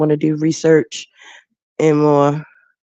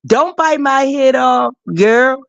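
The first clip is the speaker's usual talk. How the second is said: imitating Leandra; 7 semitones higher, slower than usual. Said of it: "She said".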